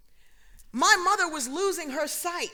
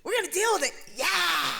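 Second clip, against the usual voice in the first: doctor reassuring. Retold or imitated. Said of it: "He's like".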